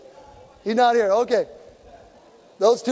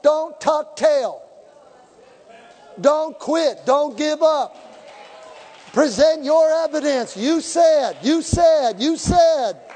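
louder, higher exhortation; fiery preaching; 5 semitones higher, 3 dB louder, much slower than usual. Acted. Preacher urging the congregation not to quit, fiery preaching. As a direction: preach it hard to the crowd.

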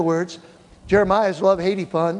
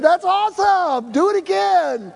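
high, loud delighted praise; excited cheer; 12 semitones higher, 4 dB louder than usual. Retold or imitated. Pastor cheering a first-time healer, excited. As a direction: cheer him on, thrilled.

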